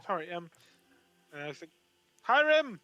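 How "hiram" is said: high, loud screeching dragon cry; dragon noise. Acted. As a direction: shriek it out like a dragon. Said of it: "He's gonna do the dragon noise".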